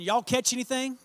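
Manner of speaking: put-on folksy Texan accent, a touch brighter; casual Texan twang, lightly put on; Texan drawl. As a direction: ask it like a Texan fisherman. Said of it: "this is out of the Texan version".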